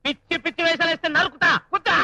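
high, stern yell; angry shout. Acted. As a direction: bark the order to sit. Teacher threatening student.

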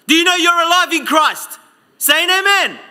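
preacher rousing the congregation for an amen; rousing call. Real, not acted. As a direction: stir the crowd to answer amen. Calling congregation to respond.

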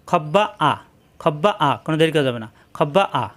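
খব্বা আ with a doubled b and no break before আ; teacher demonstrating খব্বা আ joined; no pause. Shown as a demonstration. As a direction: run খব্বা into আ without delay.

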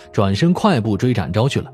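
usual speaking voice

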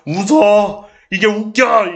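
loud indignant yell; mock angry shout. Real, not acted. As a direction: snap at viewers who laugh. Yells at laughing viewers.

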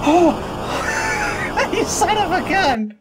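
startled high shout; scared horror game streamer. Real, not acted. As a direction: yelp after the jump scare. Jump scare reaction.

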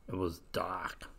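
slow, hushed whisper; spooky whisper. A narrator's reading. Storyteller to children about the dark, spooky whisper. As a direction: breathe it like a secret in the dark. Dark scene read to kids.

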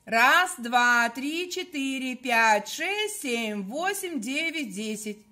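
loud chanted count; counting loudly. Shown as a demonstration. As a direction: count out strongly on the breath. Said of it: "Делаем с вами вдох и считаем до десяти".

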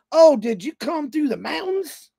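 put-on slow, drawn-out Southern lady accent; mild Southern drawl. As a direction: imitate a Southern gas station clerk. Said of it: "here comes that accent".

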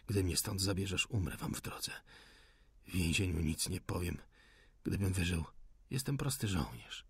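faint, hushed, dying defiance; weak wounded rebel. Acted. The wounded rebel dares the officer to shoot, barely whispering. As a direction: whisper your challenge through the pain.

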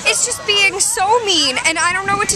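high fake whine about being hurt; mock whining. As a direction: play-act a hurt little whine.

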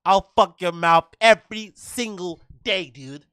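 lightly voiced mocking repeat of the threat; mock imitation. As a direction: parrot his taunt back. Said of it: "He sounds like one of those kids".

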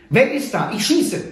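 high, loud youthful warning; shouted challenge. A narrator's reading. Young guard calling out a warning, high and loud. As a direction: shout it out to the dark. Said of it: "hörte er eine jugendliche Stimme rufen".

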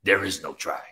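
lightly voiced wise little master; Yoda. Preacher quoting a film master to urge action, lightly voiced sage. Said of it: "That's my best Yoda voice".

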